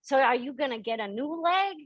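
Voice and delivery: lightly voiced curious little boy; curious four-year-old. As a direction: ask eagerly like a small child. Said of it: "and he's like".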